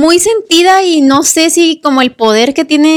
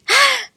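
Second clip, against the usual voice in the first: grito agudo imitado, sin más volumen; grito de señora; 13 semitones higher than usual. Retold or imitated. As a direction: imita el grito asustado de una mujer. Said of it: "Y el grito de una señora". (grito agudo de señora, imitado a medias)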